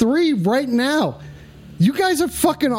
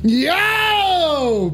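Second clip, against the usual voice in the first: excited yell; 5 semitones higher than usual. Real, not acted. Excited reaction.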